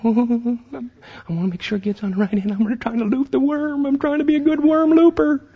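mock eager kid talking to grandfather; eager boy voice. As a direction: play the ten-year-old trying hard to be a good worm looper. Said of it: "I'm going".

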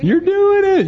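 very high, whooping cheer; excited cheering. Retold or imitated. Dad cheers as his son rides, excited.

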